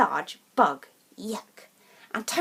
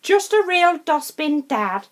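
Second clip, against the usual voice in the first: louder, teasing mum voice; mum's retort; 4 semitones higher, 5 dB louder than usual. Acted. Mum teasing dad about his eating, wry. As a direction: tease him plainly. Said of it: "declared Mum".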